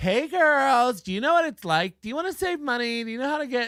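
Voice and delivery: very high, cute, dainty, light and airy voice. Mocking an advertiser who tries to sound dainty and cute: imitating a dainty, cute, airy voice. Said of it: "she's trying to do this".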